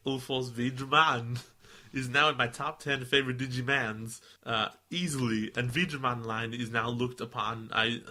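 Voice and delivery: put-on lightly done Austrian accent in a letter reading; Arnold Schwarzenegger. Podcaster reads fan letter aloud, light Austrian accent. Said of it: "You just went Arnold Schwarzenegger".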